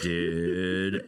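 relaxed surfer-bro American voice; American surfer accent. Pretend. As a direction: drawl it like a beach dude. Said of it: "now I'm gonna talk like this".

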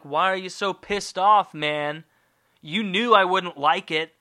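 lightly voiced patronizing question; mock-puzzled, a bit superior; condescending God. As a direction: talk down to him, mildly exasperated. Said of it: "that was pretty condescending".

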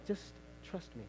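soft, broken by a patient pause; hushed divine reassurance. Acted. God repeating himself to the believer, hushed. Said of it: "And God is saying".

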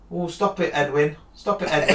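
a limp pushover parent; soft feeble scolding. Retold or imitated. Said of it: "and you go".

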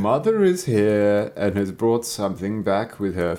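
slow, low gruff wolf; rough wolf voice. Acted. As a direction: growl it like a wolf pretending. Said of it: "She's got a very deep voice".

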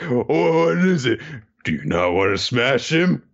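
a hint of a bossy guard; lightly voiced guard, demanding; lightly voiced guard quizzing Kohaku; mock suspicious guard.

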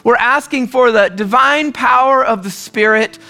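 a pastor's earnest spoken prayer, steady and pleading. Acted. Pastor praying over standing congregation, earnest plea. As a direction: pray over the room, sincere and reverent.

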